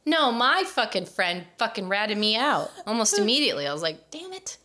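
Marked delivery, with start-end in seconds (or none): 4.1-4.6 high, hushed mock curse; a small, high-pitched retold "caught out" squeak; retold dismay. Recalls being ratted out.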